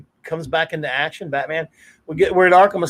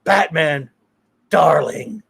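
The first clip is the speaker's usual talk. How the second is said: mock Joker purr; much slower than usual. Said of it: "he gets this great".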